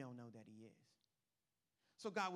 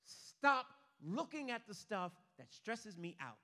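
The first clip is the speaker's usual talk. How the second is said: slow, spaced-out command; emphatic command; 6 dB louder, slower than usual. Retold or imitated. Preacher relaying God's urging to stop, slow and emphatic. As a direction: lean on each word, slowly.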